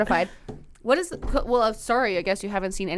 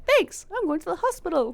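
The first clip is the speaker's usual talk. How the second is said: sarcastic thanks; 10 semitones higher than usual. Retold or imitated. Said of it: "I'm like".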